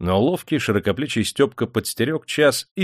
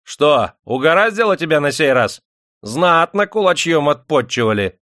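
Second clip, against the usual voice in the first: loud, high gloating taunt; malicious glee; 6 semitones higher, 5 dB louder than usual. A narrator's reading. Master mocks his beaten bodyguard, malicious glee. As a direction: jeer at the beaten man. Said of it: "захохотал зло".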